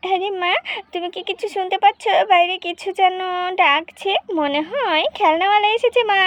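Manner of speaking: lightly voiced excited child; excited little girl. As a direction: tell mum the toy man has come. Child hears toy seller.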